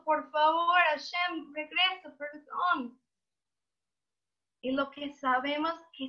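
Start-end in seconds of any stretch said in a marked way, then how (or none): 0.0-3.0 high, pleading prayer; crying plea. Acted. Worshipper begging Hashem to return, tearful. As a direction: beg tearfully for forgiveness. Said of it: "y estamos llorando".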